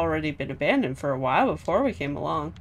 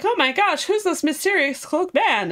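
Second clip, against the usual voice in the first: higher, breathless mock amazement; gasping Eleanor; 10 semitones higher, 3 dB louder than usual. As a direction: gasp at the stranger like a gossip. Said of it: "Eleanor's like".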